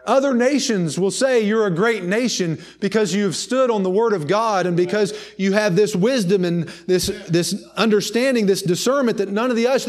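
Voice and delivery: driving, insistent sermon delivery; impassioned preaching. Real, not acted. Preacher warning the congregation against changing the truth, impassioned preaching.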